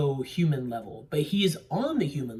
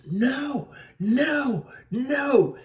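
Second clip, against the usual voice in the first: repeated defiant shouts; 8 semitones higher, 3 dB louder, much slower than usual. Retold or imitated. Caesar banging on cages.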